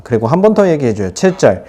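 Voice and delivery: usual speaking voice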